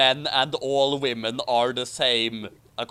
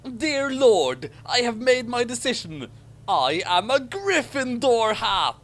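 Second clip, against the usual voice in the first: hammed-up bellowed prayer, slowing at the end; mock bellowed prayer; 9 semitones higher, 3 dB louder than usual. A narrator's reading. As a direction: proclaim it to the heavens. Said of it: "and he bellowed".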